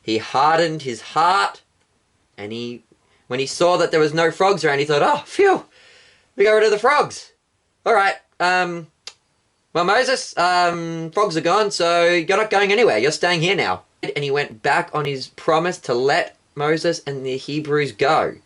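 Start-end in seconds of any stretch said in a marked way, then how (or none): 5.0-13.8 relieved Pharaoh. Acted. Pharaoh relieved, breaks promise.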